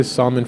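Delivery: "salmon" with a sounded l, SAHL-mun; L pronounced. Shown as a demonstration. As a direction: say "salmon" with the L for the color. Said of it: "for, like, shoes or, like, color".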